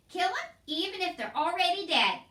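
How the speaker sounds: high, loud shouted motto. A narrator's reading. Mig loudly repeats Cook's motto. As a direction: shout it with glee.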